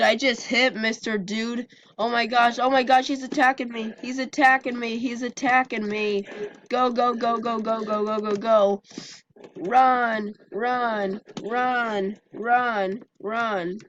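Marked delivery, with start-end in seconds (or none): 2.0-6.3 high, fast panicked cries; alarmed, voice jumping up. Real, not acted. Suddenly attacked in game. 6.7-13.8 frantic urging. Real, not acted. Fleeing attacker in game.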